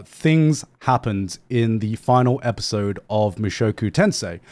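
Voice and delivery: deliberately calmer retake; calmed down. Shown as a demonstration. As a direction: settle the voice and say it evenly. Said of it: "Let's calm it down".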